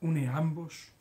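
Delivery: measured, lilting read-aloud delivery. Acted. Host reads listeners a text about the poet, measured recital reading. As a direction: read it out phrase by phrase, with rising and falling tune.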